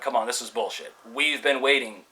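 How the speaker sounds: exasperated griping, moderately heated; mildly angry retold complaint; retold pissed-off rant. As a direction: act out fed-up impatience, punching some words. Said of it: "I'm getting pissed off".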